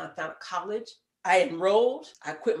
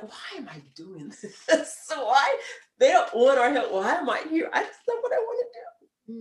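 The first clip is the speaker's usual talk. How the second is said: laughing exasperation; 6 semitones higher than usual. Retold or imitated. Retells her own despair at work.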